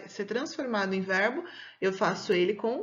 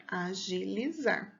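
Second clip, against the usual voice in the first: slow, softer "agilizar"; sounded-out answer; 2 semitones lower, 5 dB quieter, much slower than usual. Shown as a demonstration. Teacher forming a verb for pupils, slow and deliberate. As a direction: stretch out "agilizar" syllable by syllable, softly.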